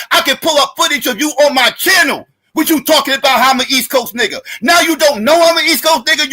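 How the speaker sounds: heated shout, rising up to a near-yell; angry yell at the lying co-host. Real, not acted. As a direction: shout him down in the argument. Heated argument, calling out co-host.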